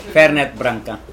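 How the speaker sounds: rolled Italian-style Fernet Branca; Italian accent. Real, not acted. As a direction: say it the Italian way, slowly.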